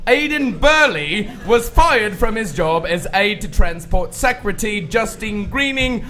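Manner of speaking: crisp formal British news read; BBC newsreader voice. Pretend. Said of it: "B B C newsreader voice".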